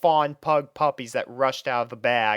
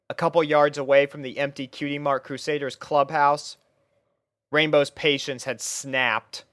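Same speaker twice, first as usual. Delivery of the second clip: plain reading voice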